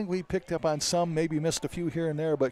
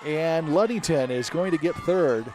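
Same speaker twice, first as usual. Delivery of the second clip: excited race call; 3 semitones higher, 5 dB louder than usual. Real, not acted. Calling the second place finish.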